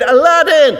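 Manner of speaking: high, long-drawn shout for a hero; desperate shout. Acted. Kid shouts to his hero on the passing float, desperate shout. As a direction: yell it out, stretching the name. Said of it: "And so he shouts".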